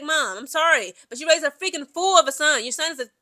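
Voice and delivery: blunt, exasperated scolding; harsh tone. Acted. Commentator addressing the man's mom about her son, harsh tone. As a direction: tell it bluntly, with emphatic exasperation. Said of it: "harsh in my tone".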